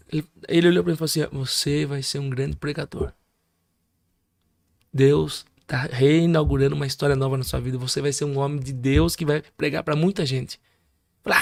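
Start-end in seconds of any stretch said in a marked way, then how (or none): 1.3-10.6 measured, weighty pronouncement to one person; solemn prophecy. Retold or imitated. Retelling a preacher's prophecy.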